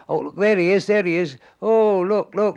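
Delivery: high, loud excited fans at the window; excited crowd. Retold or imitated. Fans on the platform spotting Arthur, loud and excited. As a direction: squeal it like fans spotting a star. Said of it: "they were all looking in the window going".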